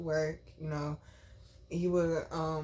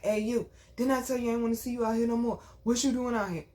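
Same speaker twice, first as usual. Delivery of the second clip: aggressive cop; 4 semitones higher, faster than usual. Retold or imitated. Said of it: "he talking real aggressive".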